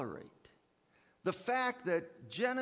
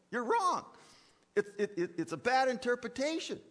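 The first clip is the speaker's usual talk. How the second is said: emphatic; 6 semitones higher, 3 dB louder than usual. Acted. Blunt rebuttal to a relativist.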